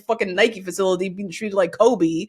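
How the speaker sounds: imitated telling-off, flaring up in bursts; hammed-up scolding of a dumbass; mock indignation. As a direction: act out her outrage, half amused. Acting out Keisha's angry confrontation.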